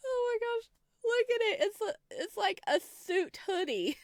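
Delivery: high giggly squeal of delight; laughing gush. Real, not acted. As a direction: squeal through laughter at the hoodie. Gushing over suit hoodie.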